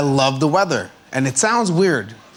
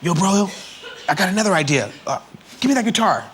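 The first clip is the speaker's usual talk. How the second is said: lightly imitated kid with an idea, higher; a singer; 5 semitones higher, faster than usual. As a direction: interrupt with a new idea, voice lifted. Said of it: "He's like".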